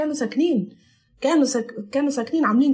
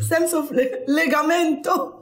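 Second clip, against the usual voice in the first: Italian word; 5 semitones higher, slower than usual. Shown as a demonstration. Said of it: "ليجامنتو يعني إشي موصول".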